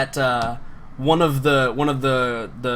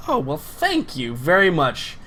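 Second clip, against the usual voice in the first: slow, savored acting of gratitude; drawn-out thanks; slower than usual. Guard accepting another man's noodles, slow drawn-out thanks. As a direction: stretch the thanks out, then repeat it.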